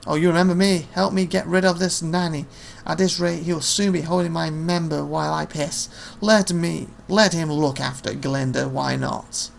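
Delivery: lightly voiced sarcastic young man; mocking youth. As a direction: tease him like a brash lad. Young man mocks his nanny.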